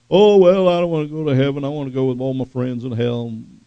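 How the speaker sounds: loud opening, then offhand mock voice; dismissive people quoted. Scoffers prefer hell with friends, dismissive mock voice. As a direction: imitate a careless scoffer, starting big and easing off. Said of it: "even the people who say".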